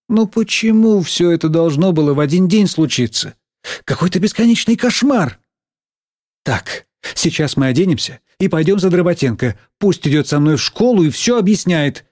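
exasperated teacher.

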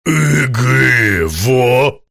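"Эгэ, во" with a puzzled rising question tune; troll grunts "Эгэ, во" as a question, rising at the end; questioning intonation. Acted. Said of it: "Тролль издал эту фразу явно с вопросительной интонацией".

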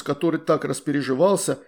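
plain reading voice

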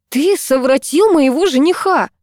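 indignant outburst at the lover; indignant accusation. A narrator's reading. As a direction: fling the blame at him. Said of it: "возмущённо бросила я".

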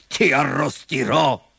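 slow, gloating fox threat; slow villain menace; chuckling fox. Acted. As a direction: relish each word of the threat. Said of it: "ridacchiò la volpe".

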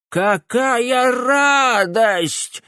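very slow, high, loud cry of joy; joyful yell. A narrator's reading. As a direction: howl it out in delight. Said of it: "завопил старик".

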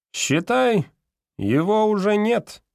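голос декана заметно выше, с нажимом; выше и медленнее, довольный заговорщик; высокий голос декана. A narrator's reading. Декан обещает убрать вахтёра. (декан довольно обещает профессору убрать вахтёра, высоким голосом)

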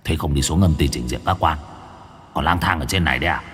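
low, fast scolding spirit voice; stern underworld spirit. Acted. Underworld spirit scolding two ghosts.

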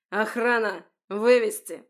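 very loud call for guards; shouted command. A narrator's reading. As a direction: yell for security. (громкий крик охране)

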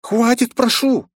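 high loud wail. A narrator's reading. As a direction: plead with a wail. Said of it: "завопила Роузи". (завывая)

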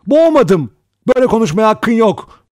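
loud, high-pitched protest; crying out. A narrator's reading. Vera denies drowning the child, crying out in protest. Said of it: "diye haykırdı Vera".

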